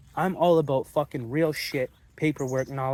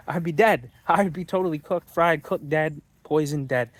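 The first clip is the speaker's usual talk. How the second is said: emphatic; 3 semitones higher, 6 dB louder than usual. Real, not acted. Emphatic list of deaths.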